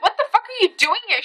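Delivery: high-pitched imitation of an amazed friend; incredulous question. Friend reacting to her in the car, high incredulous voice. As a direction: throw the question back up high.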